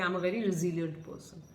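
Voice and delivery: calm, soft and assured; poised pageant answer. Shown as a demonstration. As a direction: answer like on stage, composed. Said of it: "if somebody asks me, I'll say".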